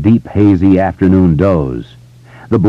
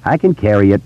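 out of breath; 4 semitones higher than usual. Acted. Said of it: "a little out of breath".

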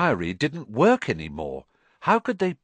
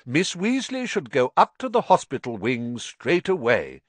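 firm; 4 semitones higher than usual. Acted. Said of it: "in a firm voice".

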